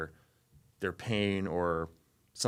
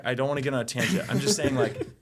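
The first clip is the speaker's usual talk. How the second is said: laughing; 4 semitones higher, 4 dB louder, faster than usual. Real, not acted. Laughs off his own tangent.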